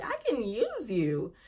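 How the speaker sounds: soft, sly aside to the slide; quietly plot, eyeing the slide; scheming to herself. Retold or imitated. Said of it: "I'm just like".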